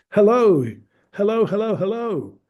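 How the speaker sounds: high, sing-song hello hello demo; 1 example quote. Shown as a demonstration. Teacher demos a quote example, high and sing-song. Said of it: "what you're gonna say with a capital letter".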